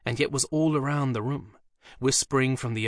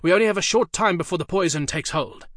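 booming, commanding summons, much higher and louder; urgent command; 7 semitones higher, 6 dB louder than usual. A narrator's reading. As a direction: roar the demon's name like a sorcerer. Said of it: "Dee said urgently".

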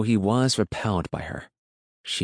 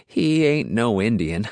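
country woman cutting in, a bit louder; lightly voiced rural woman, pitched up and dismissive; interrupting; 4 semitones higher, 5 dB louder than usual. A narrator's reading. Woman contradicts the farmer about the boy, interrupting. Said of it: "she interrupted".

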